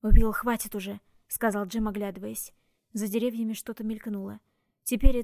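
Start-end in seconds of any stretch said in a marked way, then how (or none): 0.0-1.0 firm loud call. Acted. Jem restraining Will.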